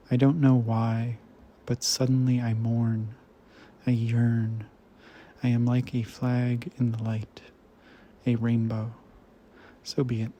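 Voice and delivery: measured poetry recital with pauses between phrases; poem reading. Acted. Reader reciting a translated Romanian poem to listeners, measured poem reading. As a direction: read it as verse, line by line, letting each image rest.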